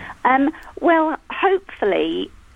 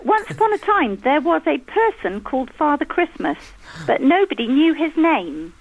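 put-on reading a child's story aloud to the room, a little higher; 3 semitones higher than usual. Mother reading her son's childhood story to the guests, storybook voice. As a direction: read it like a school storybook.

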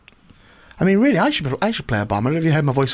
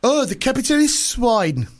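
put-on slow, higher Russian-accented Putin sneer; 7 semitones higher, slower than usual. The speaker as Putin sneering at the capitalist in Russian accent. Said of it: "probably a Russian one".

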